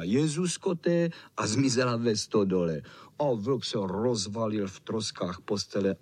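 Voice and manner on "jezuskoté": startled cry. A narrator's reading. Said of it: "babička vykřikla".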